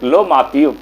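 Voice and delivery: understated, tender offering; a touch of affectionate respect; lovingly offered. Acted. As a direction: hand it over kindly, like a devoted son. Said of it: "बड़ा प्यार से दिया".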